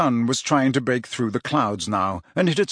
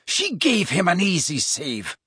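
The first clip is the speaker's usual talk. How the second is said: arguing; 6 semitones higher than usual. A narrator's reading. McLaggen argues with Harry.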